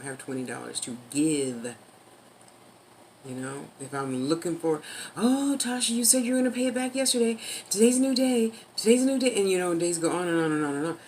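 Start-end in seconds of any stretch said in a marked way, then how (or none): 5.2-9.3 high, loud pestering imitation; insistent mock nag, pitched well up; mock nagging creditor. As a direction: badger them like a creditor, hammed-up.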